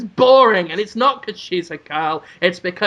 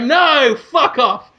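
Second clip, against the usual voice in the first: higher-pitched hero brushing off a cat; mock refusal; 5 semitones higher, slower than usual. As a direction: reject it with hammed-up indignation. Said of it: "It's like".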